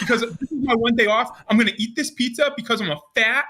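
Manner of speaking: high, indignant mock rant; amused imitation of griping; retold mad rant. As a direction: imitate a man fed up on his day off. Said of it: "He's so mad".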